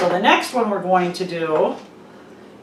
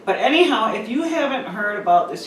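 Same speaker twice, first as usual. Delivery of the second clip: echoey empty kitchen; echoey room; 3 dB quieter than usual. Real, not acted. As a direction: voice ringing in a bare room. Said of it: "I'm sorry if I sound really echoey".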